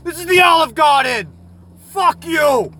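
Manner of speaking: high, loud outraged shout; shrill furious cashier yelling; angry cashier yell. Acted. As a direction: throw him out of the store. Cashier angrily yelling back.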